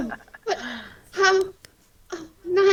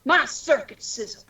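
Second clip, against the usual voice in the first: Peter Cullen impression. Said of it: "just doing what Peter Cullen does".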